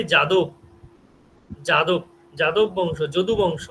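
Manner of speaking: Bengali-style j opening, final vowel dropped in যাদব; Bengali pronunciation. Shown as a demonstration. Teacher showing students how Bengalis say যাদব, Bengali pronunciation. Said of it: "আমরা যেমন বাংলায় বলি".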